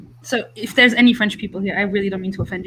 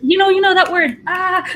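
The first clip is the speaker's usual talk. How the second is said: high, louder exasperated self-quote; mock frustration; 10 semitones higher, 3 dB louder than usual. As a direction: act out grasping for a lost word. Frustrated at forgetting a word.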